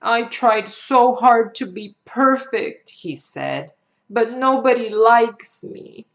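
put-on a sad boy's confession; hurt little boy. Hurt boy confides to teacher.

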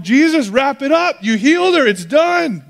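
an anxious father cheering too early; hammed-up frantic dad, hurry up; frantic impatience. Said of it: "he's sitting there going".

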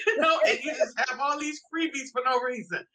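laughing. Real, not acted. Laughing about freebies.

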